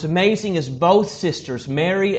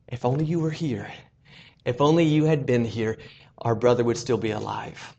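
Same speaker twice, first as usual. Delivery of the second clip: softer, half-voiced plea of loss; hushed grieving plea; 4 semitones lower, 5 dB quieter than usual. Grieving sisters confessing in secret, softly hushed. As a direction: murmur it like a secret prayer. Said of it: "what they had whispered in secret".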